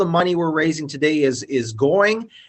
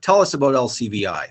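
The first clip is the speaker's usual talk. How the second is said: monotone robotic delivery; 4 semitones lower, faster than usual. Real, not acted. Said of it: "this robot voice".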